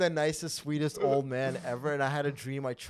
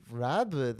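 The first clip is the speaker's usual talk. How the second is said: nagging name call; 4 dB louder than usual. Retold or imitated. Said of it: "if I had to hear".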